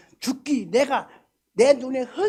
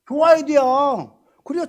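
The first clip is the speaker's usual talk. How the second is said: emphatic insistence; 4 semitones higher, 10 dB louder than usual. Acted. Pastor insists on rejoicing.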